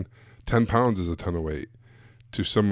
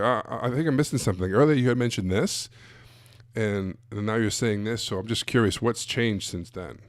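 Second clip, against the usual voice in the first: confused approach. Shown as a demonstration. Coach showing the better way to question a client, puzzled and gentle. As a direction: play dumb and curious, not accusing. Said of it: "a confused approach".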